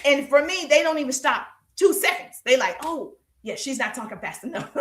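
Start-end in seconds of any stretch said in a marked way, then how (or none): 2.8-4.7 mock scroller. Mocking an impatient scroller.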